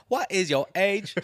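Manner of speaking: high, slow, loud mock Asian accent; hammed-up Asian accent, drawn out. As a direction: put on an exaggerated Asian accent. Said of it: "I sound Asian".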